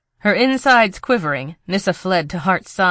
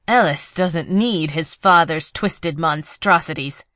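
slow, gritted-teeth defiance; through clenched teeth. Acted. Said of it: "said through clenched teeth".

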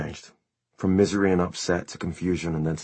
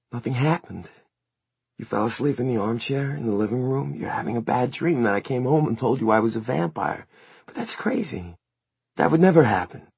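lilting, higher-pitched reassurance; soft and soothing; 6 semitones higher than usual. A narrator's reading. Son mesmerizing his mother, soothing. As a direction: coax her gently into believing it. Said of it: "soft and soothing".

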